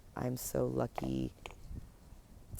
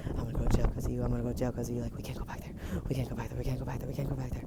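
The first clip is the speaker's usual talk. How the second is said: scared; much faster than usual. Retold or imitated. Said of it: "so scared".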